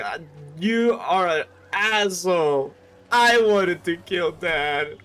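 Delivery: angry complaint. Retold or imitated. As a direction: yell at him for stealing the kill. Mortarion berates the Emperor.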